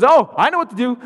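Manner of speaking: put-on high, eager toddler; bright idea in a small child's voice; little girl voice. Toddler sister with a plan, high child voice. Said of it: "And she goes".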